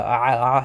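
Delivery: ah squeezed from the throat; guttural ayin sound. Shown as a demonstration. Showing viewers a hard-to-produce letter, guttural throaty ah. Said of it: "like, the guttural first letter".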